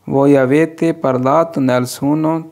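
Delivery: very slow, each Italian word laid out clearly; slow model reading. Shown as a demonstration. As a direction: read it slowly for learners to copy. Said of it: "teacher models Italian sentence". (धीरे-धीरे साफ़ उच्चारण)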